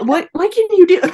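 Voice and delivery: imitating a flustered husband. Husband reacting to the positive test, whisper rising to flustered questions. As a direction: rush the questions like a panicked husband. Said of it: "he freaked out too".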